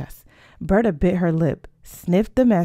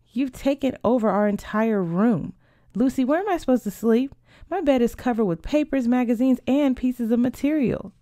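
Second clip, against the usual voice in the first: higher-pitched, put-out protest; exasperated complaint; 5 semitones higher than usual. Acted. Sister complains about her taken-over room, exasperated complaint.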